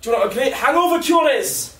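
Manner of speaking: lightly imitated drunk Scottish housemate; drunk Scottish accent. Housemate sharing his hangover cure, drunk Scottish accent. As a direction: advise in a boozy Scottish accent. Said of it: "housemate who's Scottish and he's always drinking".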